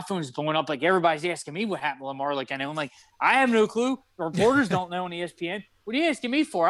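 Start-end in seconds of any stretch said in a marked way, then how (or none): 3.2-6.7 flipping out. Retold or imitated. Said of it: "I'm flipping out".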